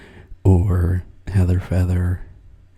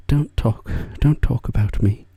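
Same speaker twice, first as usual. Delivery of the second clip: higher, light mock protest as a shy friend; imitating embarrassed Sherry; 4 semitones higher than usual. Imitating embarrassed Sherry as she hears herself praised, light mock protest. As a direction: playfully imitate her flustered protest. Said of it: "She's gonna be embarrassed when she hears this".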